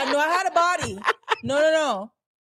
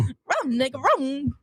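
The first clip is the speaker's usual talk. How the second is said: lightly voiced cartoon dog; mild dog-voice warning; Scooby-Doo; slower than usual. Co-host repeating the cartoon dog attempt, light impression. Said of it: "Scooby-Doo".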